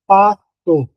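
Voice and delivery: "pato" slowly split as "pa... to"; word broken up for a class; syllable by syllable. Shown as a demonstration. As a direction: sound out "pato" in separate syllables.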